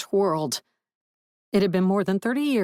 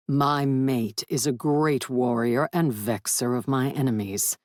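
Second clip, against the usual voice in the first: a lightly voiced stately dragon, somewhat lower; proud dragon; 3 semitones lower than usual. Dragon praising his mate to Willard, lightly lower and stately. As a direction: speak as a stoic, aloof dragon lord.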